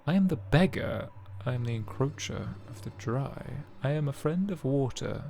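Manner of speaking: 少しだけゴブリン風の声; goblin voice. Acted. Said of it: "I love your little goblin voice".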